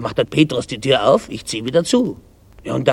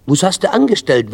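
higher, stern questioning; 6 semitones higher, 3 dB louder than usual. A narrator's reading. Father questions his crying son, stern. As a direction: demand an answer like a strict father. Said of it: "will der Vater streng wissen".

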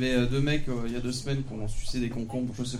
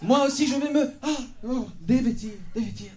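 much higher, hammed-up swoon; mock excitement; 9 semitones higher than usual. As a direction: squeal it like a parody heroine. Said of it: "je vais vous jouer une scène". (voix très aiguë, excitation parodique)

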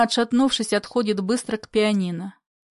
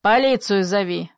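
sudden loud order; 3 dB louder than usual. Acted. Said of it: "Вдруг громко и быстро".

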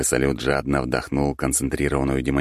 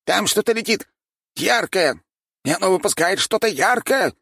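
scared hunter. A narrator's reading. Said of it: "С трясущимися коленями ответил охотник".

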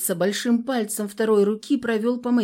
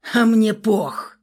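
slow, louder bark; 2 semitones higher, 7 dB louder, slower than usual. A narrator's reading. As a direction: snap it back roughly. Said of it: "рявкнул агрессор".

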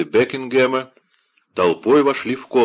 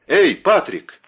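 loud high call for the servant; 9 semitones higher, 7 dB louder, slower than usual. Acted. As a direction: shout for Patrick. Герцог зовёт слугу. (громко зовёт слугу)

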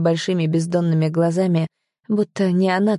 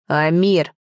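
barked name. Acted. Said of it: "рявкнул отец".

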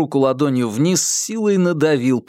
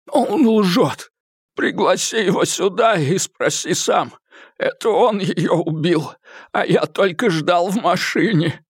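high, frantic thug voice, swearing; a beaten man blurting desperate denials; frightened high-pitched captive; Eddie, panicked; 5 semitones higher than usual. A narrator's reading.

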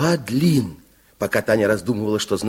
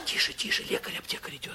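hushed, much softer warning; urgent whisper; 13 dB quieter than usual. Acted. Narrator warning Tanya the apothecary is coming, urgent whisper. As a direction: shush them quickly before he hears.

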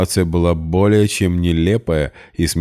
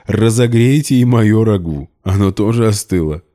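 still laughing; 5 semitones higher, 6 dB louder than usual. A narrator's reading. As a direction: ask through giggles. Max laughing at the scene. (сквозь смех, громче)

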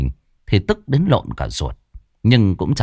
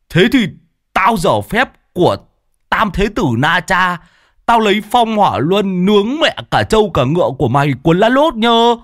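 high, loud hammed-up boast; playful mock challenge; 11 semitones higher, 3 dB louder than usual. A narrator's reading. Lâm Sẹo joining the game against Đồng, loud playful bravado. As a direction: ham it up like a kung fu hero. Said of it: "cũng hùa theo".

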